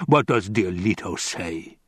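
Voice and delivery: mildly growled question; a touch of sarcastic impatience; impatient. Acted. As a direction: press for the answer, rumbling slightly. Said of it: "his voice betrayed his impatience".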